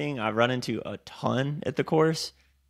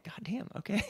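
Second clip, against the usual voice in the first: exasperated surprise; 10 semitones higher, 9 dB quieter than usual. Retold or imitated. Retold reaction to pushy instructor.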